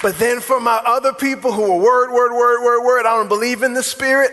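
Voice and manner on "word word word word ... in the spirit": mock a word-only believer, a bit high; lightly imitated stubborn objector, pushed along; mock insistence. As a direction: run it together in mild mockery. Mimics Bible-only people, insistent.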